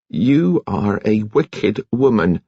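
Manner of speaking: slow, deliberate condemnation; slow stern rebuke. Acted. Nurse condemning Kitty, slow and stern. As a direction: lay each word down slowly in judgment. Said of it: "Nurse Kettle said".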